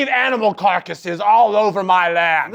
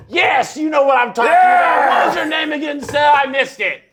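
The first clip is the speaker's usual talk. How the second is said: hammy lord; 6 semitones higher than usual. Acted. Character addresses another player.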